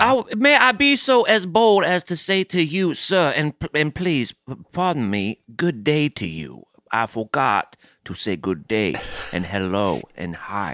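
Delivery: bow and fuss like an antebellum host; Southern gentleman accent. Acted. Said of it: "here in the antebellum South".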